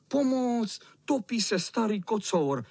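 calling for help. Acted.

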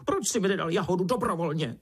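high squeaky beetle scolding; squeaking beetle. A narrator's reading. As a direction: squeak your blame at the ant. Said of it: "pištěla".

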